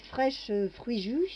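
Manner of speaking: English words in a French speaker's accent. Shown as a demonstration. Cook reading the appliance's English label aloud, in her English accent. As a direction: attempt an English accent, lightly. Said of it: "avec mon accent anglais".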